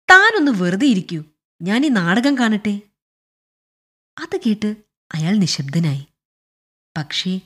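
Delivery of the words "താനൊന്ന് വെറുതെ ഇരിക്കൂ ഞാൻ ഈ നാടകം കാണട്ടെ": louder, annoyed rebuff; irritated. Acted. General bothered during the play tells clerk off, irritated. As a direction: tell him off with some annoyance. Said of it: "അസ്വസ്ഥതയോടെ general പറഞ്ഞു".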